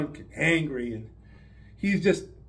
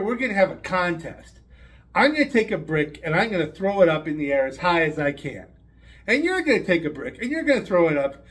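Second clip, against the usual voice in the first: bully's challenge. Acted. Bully proposes brick contest to Ned.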